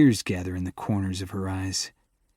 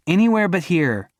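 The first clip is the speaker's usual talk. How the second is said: much higher, louder scream that cracks; scream with voice cracking; 8 semitones higher, 5 dB louder than usual. Acted. To her boyfriend chasing her, screaming with cracking voice. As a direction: fling it back mid-tears. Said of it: "she screams back, her voice cracking".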